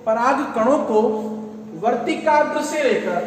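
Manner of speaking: measured, slow dictation with pauses between phrases. Real, not acted. Teacher dictating a definition for students to write down, slowly. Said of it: "मैं बिल्कुल धीरे बोल रहा हूं".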